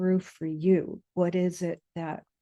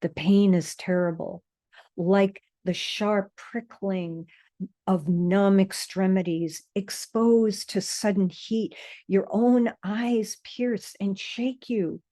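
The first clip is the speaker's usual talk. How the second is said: measured poetry reading with deliberate pauses; poem recitation. A narrator's reading. Reading a poem to listeners settled with eyes closed, measured recitation. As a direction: recite it, letting each image land.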